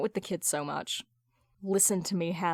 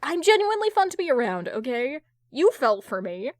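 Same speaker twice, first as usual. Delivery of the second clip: higher, louder, fast indignant defense; pitched-up flustered protest; defensive insistence; 4 semitones higher, 4 dB louder than usual. Acted. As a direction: rush to defend your honor. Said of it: "tries to defend his honor".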